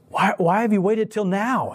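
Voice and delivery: high, slow mock disbelief; incredulous question. Family to the neighbor who brought a Bible, retold incredulity. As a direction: act out an astonished demand for an explanation.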